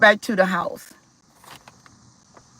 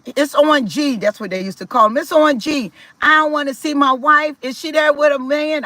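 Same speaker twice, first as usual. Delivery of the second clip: brother refusing; 5 semitones higher than usual. Retold or imitated. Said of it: "he said".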